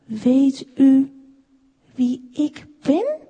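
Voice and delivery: mildly astonished, slowing question; surprised. A narrator's reading. Small wooden man asks his maker, surprised. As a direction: ask it slowly, in hesitant wonder. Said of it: "vroeg de kleine Neerlander verbaasd".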